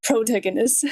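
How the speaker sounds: Protagonist mimicked with the video's odd vowel; imitating their accent. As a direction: echo the narrator's Protagonist mockingly. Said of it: "What type of accent is this?".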